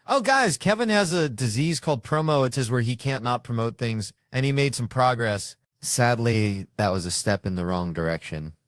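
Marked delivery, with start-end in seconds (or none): 0.1-2.5 excited outburst. Real, not acted. Mock outrage at cohost's plug.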